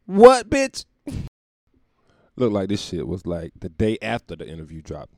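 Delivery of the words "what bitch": much higher, louder outraged squawk; a sudden disbelieving shriek; shocked outburst. Real, not acted. Comic reacting to the Instagram post, loud shocked squawk.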